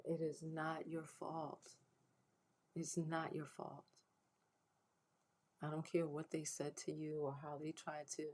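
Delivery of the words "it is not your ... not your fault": slow, softer reassurance to survivors; reassuring. Real, not acted. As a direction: tell them gently it was never their fault.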